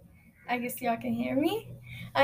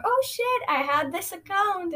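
high startled gasp of realization; suddenly remembering something, caught off guard; sudden surprise; 6 semitones higher than usual. Pretend. Imagined future self remembering.

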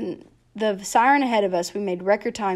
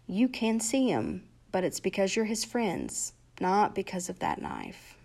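calm and firm; 4 dB quieter than usual. Acted. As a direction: stay calm, quietly firm. Doctor calmly faces knife.

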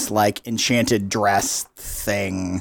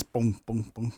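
bouncing barrel noise; 2 semitones lower, 10 dB quieter, slower than usual. Acted.

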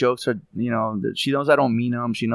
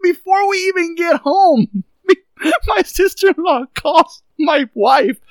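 telling the podcast host about his sister-in-law, laughing hard; laughing while telling; 5 dB louder than usual. Real, not acted. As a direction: barely get it out while cracking up. Laughing through the story.

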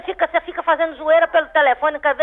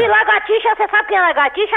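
high-pitched indignant challenge; really riled; 6 semitones higher than usual. Real, not acted. Woman objecting to a prank caller's nickname, riled. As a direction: reject the nickname angrily, voice raised in pitch. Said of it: "lagartixa tá braba demais".

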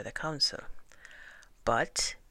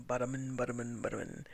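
plodding footsteps; 2 semitones lower, 5 dB quieter, much faster than usual. A narrator's reading. Imitates the iguana's plodding walk.

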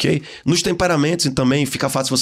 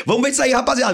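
high, eager call to the guys; rally the crowd for the fight; playful mock excitement; excited crowd hype; 10 semitones higher, faster than usual. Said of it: "O sanguíneo vai dizer".

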